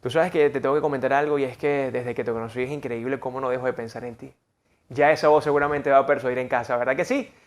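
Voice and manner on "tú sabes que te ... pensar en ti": romantic murmur. Shown as a demonstration. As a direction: speak like telling someone you love them. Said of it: "le decimos a esa persona".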